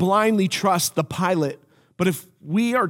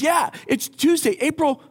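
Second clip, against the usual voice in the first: dawning realization; 9 semitones higher than usual. Retold or imitated. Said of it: "He goes".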